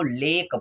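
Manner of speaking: लेक with a long AY; correct ay version. Shown as a demonstration. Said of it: "क्या पढ़ेंगे इसको". (लंबे ए से "लेक")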